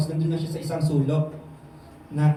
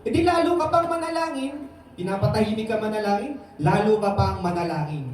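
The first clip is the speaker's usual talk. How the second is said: urging; 2 semitones higher than usual. Real, not acted. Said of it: "preacher urging to pray more".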